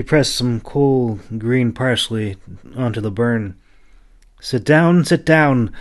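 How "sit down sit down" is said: put-on higher, fussing old woman urging him to sit; exclaiming. A narrator's reading. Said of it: "she exclaimed".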